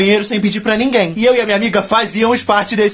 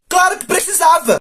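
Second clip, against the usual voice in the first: sarcastic answer; 9 semitones higher than usual. Real, not acted.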